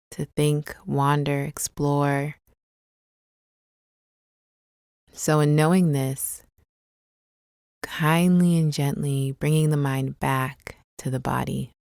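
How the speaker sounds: calm, unhurried meditation guide with long pauses; guided meditation. Acted. Guide leading listeners through a body scan, calm guided meditation. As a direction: ease them gently into the body, leaving space between phrases.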